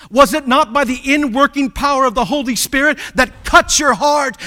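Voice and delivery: loud, driving pulpit delivery; forceful preacher, punching the key words; preaching at full force. Real, not acted. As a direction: drive each question home to the congregation.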